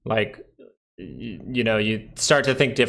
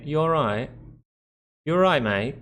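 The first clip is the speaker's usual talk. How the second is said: higher-pitched mock British accent; British greeting imitation; 4 semitones higher than usual. Brit greeting a mate, imitated British accent. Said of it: "Or they'd say".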